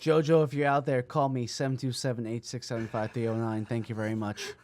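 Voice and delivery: low, matter-of-fact announcement voice; mock on-air appeal.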